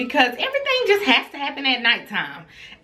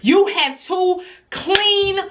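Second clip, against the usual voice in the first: angry mother; 2 semitones higher than usual. Retold or imitated. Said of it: "I said".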